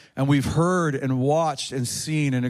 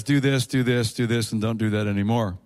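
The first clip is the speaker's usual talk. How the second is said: priest giving orders; 6 semitones lower than usual. Retold or imitated. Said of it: "And a priest says".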